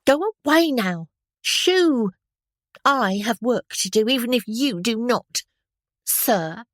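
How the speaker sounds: high, loud scolding washerwoman. A narrator's reading. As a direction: tell off the officer, stick waving. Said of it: "could not imitate her broad Cockney accent".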